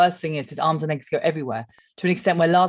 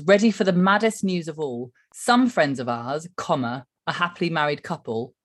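reading a tweet. Shown as a demonstration. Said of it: "so it says".

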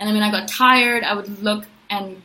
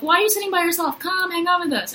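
friendly invitation; 8 semitones higher than usual. Retold or imitated. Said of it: "be like".

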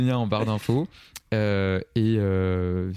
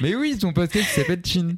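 laughing; 8 semitones higher than usual. Real, not acted. Teasing reply, laugh heard.

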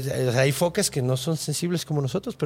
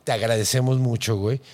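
serious; 5 semitones lower than usual. Retold or imitated. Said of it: "en muy seria".

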